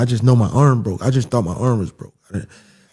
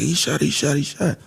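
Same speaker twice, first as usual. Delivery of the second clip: imitating panic; 6 semitones higher, 4 dB quieter than usual. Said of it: "she started freaking out".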